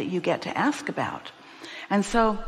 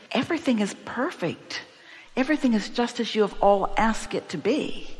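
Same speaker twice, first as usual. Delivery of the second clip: "Everything" pitched up, stressed for emphasis; emphatic statement; 3 semitones higher than usual. Real, not acted. Reassuring the questioner that all is as asked, emphatic on "Everything". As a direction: say "Everything" with deliberate, raised emphasis. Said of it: "We're gonna emphasize that".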